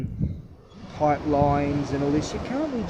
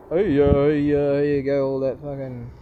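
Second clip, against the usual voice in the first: ordinary talk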